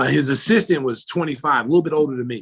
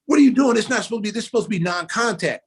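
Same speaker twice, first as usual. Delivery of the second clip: mock outraged objection; indignant protest; 5 semitones higher, faster than usual. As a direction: act out an incredulous complaint. Acted protest after a hard foul.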